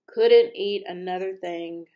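loud, puffed-out stuffed duke. A narrator's reading. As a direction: puff it out, too full to eat. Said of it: "puffed the Duke".

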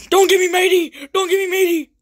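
frantic high pirate pleading; panicked pirate cry. Acted.

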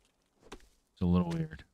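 high-pitched, slow and drawn out. Shown as a demonstration. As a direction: squeak it out slowly. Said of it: "repeated in other voice".

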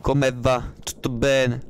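a lightly voiced slow greeting, barely off his own voice; a hint of imitating a famous greeter; mild mock greeting; Pasquale Pratico impression. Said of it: "Faccio come a Pasquale Pratico".

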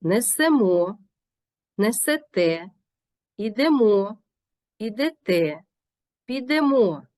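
несемо, несете, ідемо stressed on final МО and ТЕ; last-syllable stress. Shown as a demonstration. Teacher modelling verb endings like несемО, final stress. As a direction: drive each verb to its last vowel. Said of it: "наголошуємо останній склад".

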